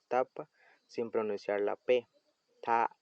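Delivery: ta cut off with a glottal stop; glottal stop demo. Shown as a demonstration. Teacher showing a glottal stop by cutting off ta. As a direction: stop ta sharply in the throat. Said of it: "Entenderemos lo que es un saltillo".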